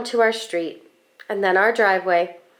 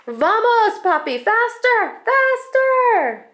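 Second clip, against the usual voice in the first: put-on much higher, eager child cheering dad on; little girl on the bike yelling at papi to go faster, thrilled; excited urging; 12 semitones higher, slower than usual. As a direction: bounce in the seat and beg for more speed.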